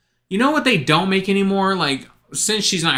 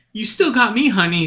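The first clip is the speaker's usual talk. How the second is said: sitcom scene quote; 6 semitones higher than usual. Retold or imitated. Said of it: "that scene from King of Queens".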